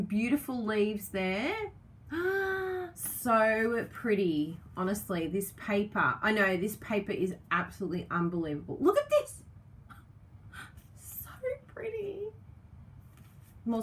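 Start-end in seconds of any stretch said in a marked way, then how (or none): 2.1-2.9 sharp high gasp of delight. Real, not acted. Crafter opens the next sheet, high delighted gasp. First sight of the paper. 8.8-9.4 much higher, louder squeal; excited squeal. Real, not acted. Crafter shows viewers a sheet, high excited squeal. 11.0-12.2 much higher and softer, cooing. Real, not acted. Crafter admiring the paper, high soft coo.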